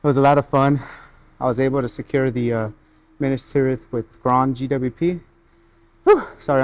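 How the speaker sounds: out of breath. Real, not acted. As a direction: talk while catching your breath. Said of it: "I'm out of breath".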